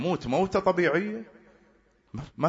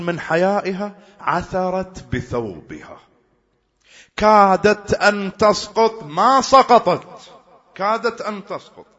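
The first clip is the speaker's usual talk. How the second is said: slow, higher, louder rising cry; rising emotional recital; 6 semitones higher, 7 dB louder, slower than usual. Real, not acted. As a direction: let the emotion swell over the stumble. Preacher rises retelling the stumble.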